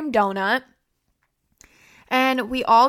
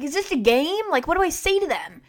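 higher-pitched imitation of a thrilled dad; a touch of starstruck wonder, imitated; mock giddy dad; 6 semitones higher than usual. Dad asking his child about fans, imitated giddy wonder. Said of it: "he thought it was so cool".

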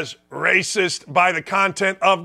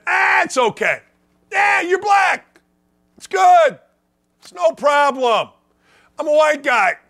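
much higher, louder sneering caricature; sarcastic mock voice; 8 semitones higher, 3 dB louder than usual. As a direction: lampoon a condescending white guy. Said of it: "and we don't say".

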